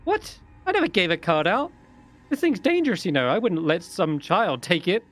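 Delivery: high, protesting halfling voice with a leaping "What?"; indignant halfling. Acted. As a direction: defend her treasure, affronted.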